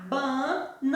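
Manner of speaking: BA-NA-NEI-RA, four separated beats; syllable by syllable. Shown as a demonstration. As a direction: count out Bananeira one syllable at a time. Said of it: "Bananeira também tem quatro sílabas".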